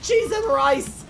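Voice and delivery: drawn out exclamation. Real, not acted. In-game panic exclamation.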